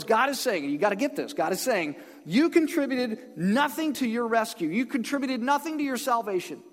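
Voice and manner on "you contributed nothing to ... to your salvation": "nothing" punched, pitch raised; raised, insistent stress on "nothing"; emphatic declaration. Acted. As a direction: drive home "nothing" as God speaking. Voicing God's emphatic declaration.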